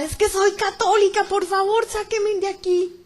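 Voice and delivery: high-pitched pleading shout; desperate shout. Retold or imitated. Woman shouts she is Catholic to escape, desperate shout. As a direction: plead desperately, dragging out the last words. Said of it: "Y grito desesperada".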